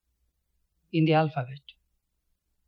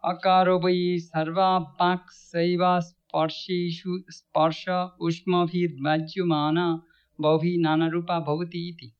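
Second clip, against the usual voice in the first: Sanskrit recitation. Shown as a demonstration.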